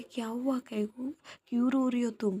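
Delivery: a caring friend asking why she cries; worried tender asking. Acted. Viya wipes Tanu's tears.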